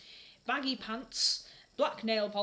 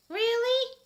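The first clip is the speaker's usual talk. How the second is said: sensitive Draco; 10 dB louder than usual. Acted. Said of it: "asked Draco sensitively".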